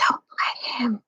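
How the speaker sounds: urgent hushed plea; whispered. Acted. Trumpkin warning Peter under his breath, whispered. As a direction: whisper it so no one hears. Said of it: "whispered Trumpkin to Peter".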